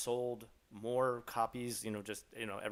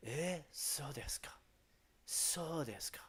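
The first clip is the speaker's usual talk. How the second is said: feigned interest; 2 semitones higher, 7 dB quieter than usual. Pretend. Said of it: "Be like".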